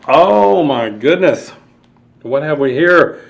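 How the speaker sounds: gasp, then wonder aloud; gasp of surprise. Acted.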